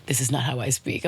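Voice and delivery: low mock apology; sheepish apology. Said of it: "He's like, "I'm so sorry".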